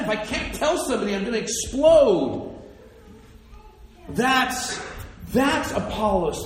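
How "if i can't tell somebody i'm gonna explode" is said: hurried start building to a big finish; burning urgency. Acted. Apollos burning to tell somebody, urgent and building. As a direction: let it build until the last word bursts. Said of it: "like, burn up inside".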